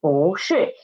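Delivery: 不是 with 不 rising in second tone. Shown as a demonstration. Teacher explains the tone change, 不 in second tone before 是. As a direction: lift 不 upward before falling 是. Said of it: "changed its tone into second tone".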